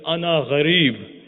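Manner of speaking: crying out. Acted. Starving stranger entering Medina, crying out slowly. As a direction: call it out at the top of your voice. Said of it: "he says on the top of his voice".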